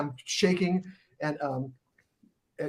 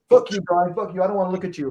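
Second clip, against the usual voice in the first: mock angry curse; 4 semitones higher, faster than usual. Matt cursing Brian out.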